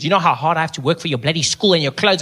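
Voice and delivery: mock scolding parent voice; a light impression of a parent complaining about costs; imitating a nagging parent. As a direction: whine it like a fed-up parent. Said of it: "when parents say that to their kids".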